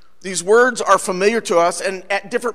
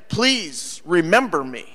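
slow "Please remember me" with weight on PLEASE; pleading. Shown as a demonstration. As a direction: draw out "Please" as a mild plea. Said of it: "When we are pleading".

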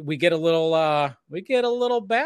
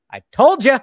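higher and louder, mock smug; smug told-you-so; 10 semitones higher, 12 dB louder than usual. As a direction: crow it like a smug sidekick. Voicing Mercy teasing.

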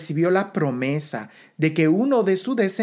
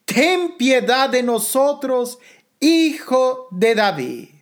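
slow, drawn-out plea, only lightly raised; mild crying out; 2 semitones higher, slower than usual. Acted. Preacher voices two blind men calling to Jesus, mildly crying out. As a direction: call it out with stretched words, restrained. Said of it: "tenían una voz. ¿Y qué voz?".

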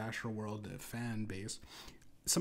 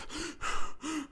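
mock hyperventilating gasps. Concertgoer reliving the gas attack, mock hyperventilation. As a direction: gasp as if air won't come. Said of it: "I was having hyperventilation".

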